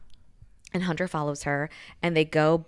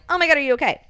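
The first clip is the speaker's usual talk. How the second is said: fake concern; 10 semitones higher, 6 dB louder, much faster than usual. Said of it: "trying to be like".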